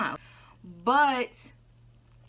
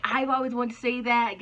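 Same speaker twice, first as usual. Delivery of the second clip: mocking commenters; 3 semitones higher than usual. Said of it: "Oh, you know, you're so real".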